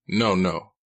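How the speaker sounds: firm objection; objecting. A narrator's reading. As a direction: cut him off firmly. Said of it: "he objected".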